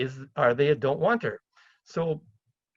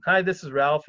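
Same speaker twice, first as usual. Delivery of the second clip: tactful opener; 3 dB louder than usual. Acted. Investor phoning an owner about the ad, tactful and relaxed. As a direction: introduce yourself casually, no pressure. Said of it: "kinda be kind of a little bit tactful".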